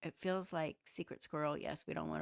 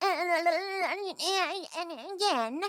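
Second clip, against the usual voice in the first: shrill, loud squeal with stretched-out and; 13 semitones higher, 11 dB louder than usual. Mimicking how she talks in court: Lori voice. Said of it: "That Lori voice".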